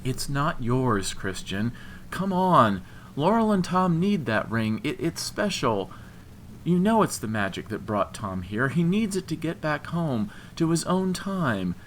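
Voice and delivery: high-voiced, earnest appeal; almost compassionate. A narrator's reading. Woman urging friend's ex to give up the ring, compassionate pleading. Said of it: "almost compassionately".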